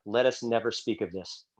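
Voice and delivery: low, soft, solemn vow; grim quiet vow. Retold or imitated. Broken friend after the race, low solemn quiet. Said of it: "And Will said".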